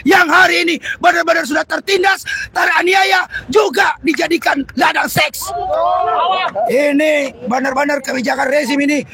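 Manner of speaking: fiery revolutionary speech. Real, not acted. Fiery protest speech to workers.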